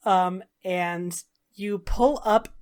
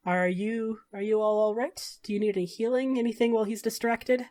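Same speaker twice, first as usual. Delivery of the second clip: softer, discreet, quick concern; hushed offer; 6 dB quieter than usual. Acted. Gentleman quietly helps captives.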